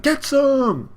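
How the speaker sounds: high, loud mock crowd yell; imitated fight-crowd holler; crowd cheer. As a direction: whoop it like a rowdy spectator.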